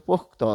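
"পোক্ত" as pok-to, with final o; vowel added at end. Shown as a demonstration. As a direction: sound the o after t in "পোক্ত". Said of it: "ত এর পরে কিন্তু অ ধ্বনিটি চলে এসেছে".

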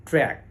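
track with a front a, as trek; track pronounced correctly. Shown as a demonstration. Teacher introducing the word, track with its correct front vowel. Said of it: "আসলে এটির সঠিক উচ্চারণ হলো".

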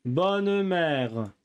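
lightly hammed Marseille accent; a hint of a Marseille accent. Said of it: "Je suis un très bon acteur".

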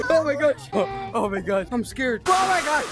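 high loud scream with a laughing cry; terrified shrieking. Real, not acted. Streamer jumping at a scare, shrieking and laughing. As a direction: screech through nervous laughter. Scared in Crawl Space level.

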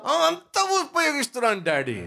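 put-on a small kid insisting he's trying; child's voice. Child answers father again.

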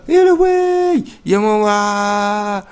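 high, loud, very slow stretched cry of panic; panicked scream. Real, not acted. Gamer falling through the map, high loud drawn-out scream. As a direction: scream for your mother as you fall.

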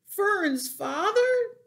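slow, high, loud shocked question; shouted disbelief. A narrator's reading. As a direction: draw out the startled cry. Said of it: "shouted Wilbur".

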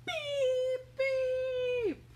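high robot beeping; robot beeps. Acted. Robots calling from their beds, high beeping. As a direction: squeak it like a tiny robot.

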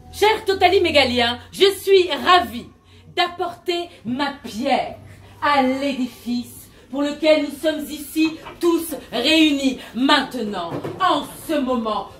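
grand self-help sermon; guru preaching. Acted. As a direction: preach it to the followers.

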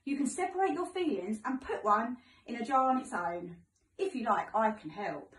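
sing-song storybook voice for little ones; reading to children. Acted. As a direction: read it like story time for children. Teacher reads picture book to class.

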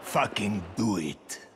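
slow menace. Acted. Colonel orders officer to comply.

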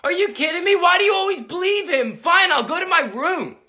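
put-on high whining tattling boy; whiny kid. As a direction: whine it to Mom. Kid sent to his room.

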